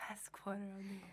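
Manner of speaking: hushed whispered echo; whispering. Real, not acted. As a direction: breathe the words with no voice. Echoing the date in a whisper.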